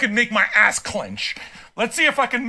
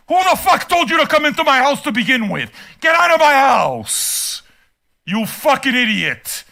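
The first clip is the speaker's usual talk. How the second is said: indignant raised-voice demand; heated shout, stretched at the end; angry outburst; 4 semitones higher than usual. Real, not acted. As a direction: yell at an unwelcome guest to get out. Throwing out an imagined complaining guest.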